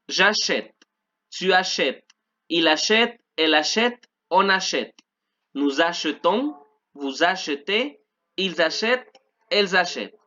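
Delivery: measured model of "achète" as a-SHET; teacher's drill, "achète" with a sounded final T; French pronunciation demo. Shown as a demonstration. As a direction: recite the forms clearly, "achetons" with muted middle E. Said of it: "vamos con la pronunciación".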